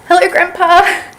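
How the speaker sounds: high, loud imitation of a child calling out; imitated cheerful shout to Grandpa; daughter's shouted greeting. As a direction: call it out like an excited granddaughter. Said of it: "my daughter shouts".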